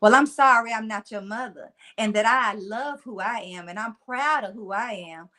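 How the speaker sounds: laid-on Southern twang, firm retort; thick Southern twang. Retold or imitated. Granddaughter biting back at grandmother, thick Southern twang. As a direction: lay the country twang on thick. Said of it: "I laid it on real thick".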